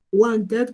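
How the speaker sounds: WANTED read as spelt, "want-ed"; Spanish-speaker reading. Shown as a demonstration. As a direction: give "wanted" a full E in the ending. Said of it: "como mi cerebro de habla hispana me dice".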